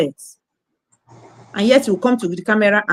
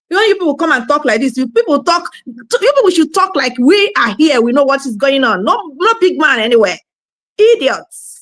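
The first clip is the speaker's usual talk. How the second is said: raised, fast, scornful scolding; angry scolding; 4 semitones higher, 3 dB louder than usual. Real, not acted. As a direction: berate them, voice up and hard. Scolding the diaspora vloggers.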